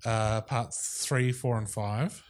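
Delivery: slow, drawn-out robot reading; booming metallic robot. Pretend. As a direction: read it out like a droning machine. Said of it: "Can you read it in a robot voice?".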